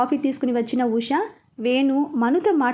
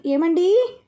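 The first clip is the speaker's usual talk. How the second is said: loud, higher call to her husband; 6 semitones higher, 4 dB louder, much slower than usual. Acted. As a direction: shout for him from the next room. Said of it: "ఎందుకు అలా అరుస్తున్నావు". (గట్టిగా పిలవడం)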